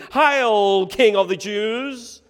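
loud, high acclamation; proclaimed like a salute; mock royal salute. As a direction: hail the king at full voice, drawing out the first word. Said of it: "they began to salute him".

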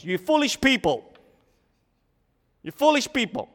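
high, loud scolding of foolish people. Shown as a demonstration. Preacher acting out how James might scold the church, high and loud. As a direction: scold them in a put-on voice. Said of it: "imagine I talk like this".

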